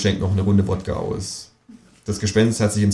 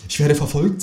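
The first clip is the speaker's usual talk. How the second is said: lightly raised ghost voice; a hint of a haunted ghost; 6 semitones higher than usual. A narrator's reading. The ghost confiding to the kangaroo, lightly voiced.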